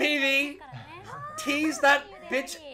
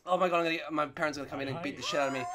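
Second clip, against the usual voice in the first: low, quick, soft worry; catching yourself after yelling; hushed aside; 10 semitones lower, 8 dB quieter, much faster than usual. Real, not acted. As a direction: drop the voice and hurry it out. Worried parents will hear yelling.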